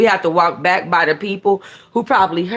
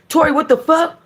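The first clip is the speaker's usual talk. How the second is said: in a panic; 7 semitones higher, faster than usual. A narrator's reading. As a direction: blurt it out in alarm, rushing the end. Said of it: "Juice says in a panic".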